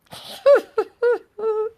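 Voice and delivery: a high, bright burst of laughter at herself; real laugh. Real, not acted. Laughing to the viewers at her own dating logic, amused. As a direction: laugh at your own joke.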